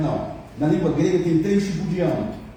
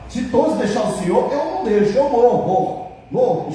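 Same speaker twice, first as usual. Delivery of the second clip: boastful Peter; 6 semitones higher, 3 dB louder than usual. Retold or imitated. Peter's boastful vow voiced.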